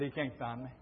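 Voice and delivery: low hushed hiding voice; hushed to himself. Retold or imitated. Boy hiding in the hog house, hushed. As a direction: whisper it like a hiding child. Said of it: "I said".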